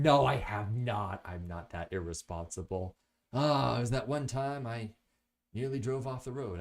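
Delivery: ordinary talk, nothing marked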